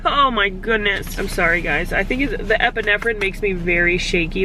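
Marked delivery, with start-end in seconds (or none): 0.0-1.9 tearful. Real, not acted. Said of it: "Sorry about all the crying earlier".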